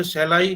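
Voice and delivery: shall I, slowly, with I rising; stress on I. Shown as a demonstration. Teacher slowly stressing I in shall I for students. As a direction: lean on I in shall I. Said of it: "यहाँ पे I stress हो सकता है".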